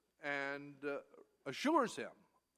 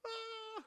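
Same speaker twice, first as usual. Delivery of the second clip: put-on a high, startled child's cry; little boy's yelp; 3 dB quieter than usual. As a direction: yelp like a small boy scared by a big dog. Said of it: "And the little boy goes".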